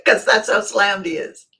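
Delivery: real amusement carried into the words; amused. Real, not acted. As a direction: still tickled. Still laughing at friend's terseness.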